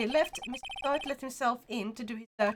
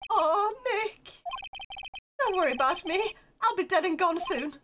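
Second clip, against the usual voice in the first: hammed-up despair; 6 semitones higher than usual. Voicing despairing Larry.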